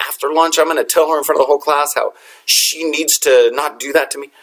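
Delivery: retold indignant rant; mildly worked-up venting, pitch jumping midway; carrying on. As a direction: vent to a friend about the nerve of it. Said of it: "when we're carrying on like that".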